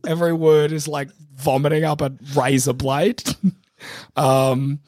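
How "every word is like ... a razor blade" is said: hoarse, strained sore-throat voice. Real, not acted. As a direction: rasp through a sore throat. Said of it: "my throat is killing me".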